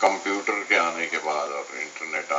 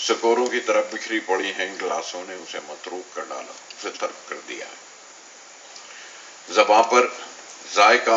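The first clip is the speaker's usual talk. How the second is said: poetry recitation; 3 semitones higher, 6 dB louder than usual. Acted. Poet recites on forgotten idioms to an audience, poetry recitation. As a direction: project the first phrase, then let it fall away. Recites a poem about books.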